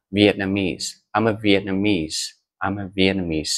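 Vietnamese with main stress on the last syllable, viet-na-MESE; correct stress demo. Shown as a demonstration. Teacher modelling Vietnamese stress for students. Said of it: "trọng âm chính thường sẽ rơi vào mis".

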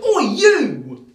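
high, loud barked "Oi"; high angry mother voice; mock shout. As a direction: yell across the room at the elf. Entitled mother storms over.

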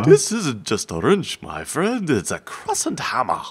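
mock grand pitchman. Mock pompous wrench line.

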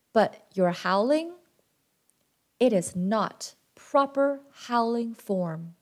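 gentle father. Acted. Big Wolf gently telling his son the truth, tender. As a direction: let him down gently.

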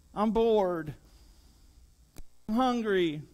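put-on bored kid whining from the back seat; backseat whining. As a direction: whine like a tired child on a road trip. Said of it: "they sound like these whiny kids".

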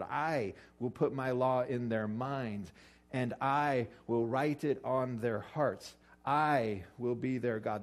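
each I leaned on, words drawn out slowly; stress on I. Shown as a demonstration. Pastor stressing God's promises to the class, I stressed slowly. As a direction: make every I count, slow and deliberate. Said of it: "There's a reason I'm emphasizing the I part".

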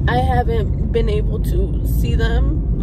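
overwhelmed, apologising through tears; crying while talking. Real, not acted. Missing her family on her birthday, crying. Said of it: "Sorry guys, I'm crying".

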